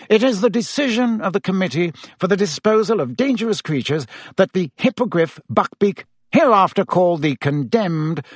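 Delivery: high, brisk proclamation; official reading a verdict. A narrator's reading. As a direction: read out the sentence like a pompous official. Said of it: "As Fudge's voice started again".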